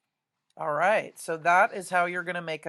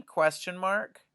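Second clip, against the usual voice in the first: ordinary talk, nothing marked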